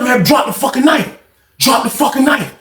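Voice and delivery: yelling at a man with a knife; retold shout. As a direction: order him to drop it. Lawrence ordering knife dropped.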